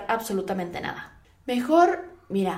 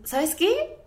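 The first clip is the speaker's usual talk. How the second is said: setting a boundary; 3 semitones higher than usual. Retold or imitated. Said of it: "Hay que saber decir".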